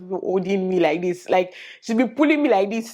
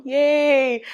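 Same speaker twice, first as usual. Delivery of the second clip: 1 cheerful yay; 7 semitones higher, 4 dB louder than usual. Real, not acted. Celebrates having a car.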